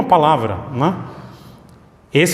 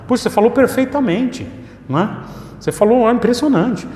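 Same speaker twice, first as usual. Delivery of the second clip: much higher, gushing admiration; a stranger stunned by perfect speech; amazed; 7 semitones higher than usual. Retold or imitated. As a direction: rave about the speech like you can't believe it. Acting out an amazed listener.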